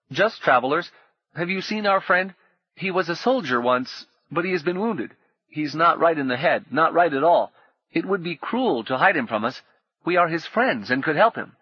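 smooth falsely kind pleading; a hint of oily kindness; kindly stranger. A narrator's reading. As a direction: sound reasonable while hiding greed. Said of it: "The voice was full of kind reason".

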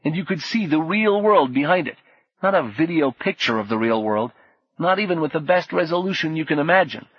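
high, awed; marvelling, building; awed excitement. Acted. Orlando describing vision.

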